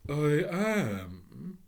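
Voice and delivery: the phoenix states plainly; simple phoenix. Acted. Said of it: "said the bird simply".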